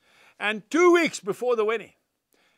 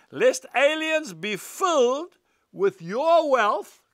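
very slow, each word weighed; slow scripture reading; 3 semitones higher, much slower than usual. Shown as a demonstration. Preacher reading Proverbs to his congregation, very slow. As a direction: read the verse out slowly and deliberately.

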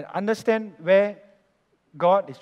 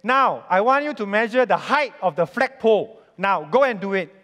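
firm, raised order from a boss; commanding boss; 3 semitones higher, 6 dB louder than usual. Retold or imitated. Boss sending engineers off to measure a flagpole, commanding. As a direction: give a brisk order, pitch and volume lifted.

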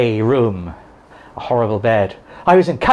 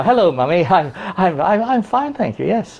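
higher, overly innocent greeting; innocent son; 4 semitones higher than usual. Retold or imitated. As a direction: pretend all is well to mummy, pitched up. Innocent voice to his mother.

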